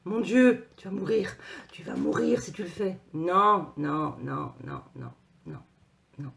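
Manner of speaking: loud, hammed-up alarm; panicky inner voice. Inner voice warning you off a risk, mock panicked. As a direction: play the little voice of fear, exclaiming in mock panic. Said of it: "c'est la petite voix qui vous dit".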